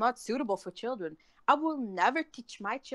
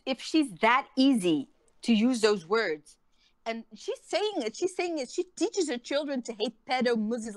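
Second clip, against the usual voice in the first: angry rising rant; 2 semitones higher, 4 dB louder than usual. Real, not acted. Ranting angrily at the mother.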